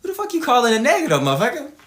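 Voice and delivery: mock-outraged snap; indignant retort. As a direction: fire it back offended and quick. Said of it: "I'm like".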